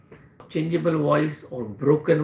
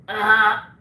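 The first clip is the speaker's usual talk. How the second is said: cracking voice demo; 4 semitones higher than usual. Shown as a demonstration. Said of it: "when the patient speaks".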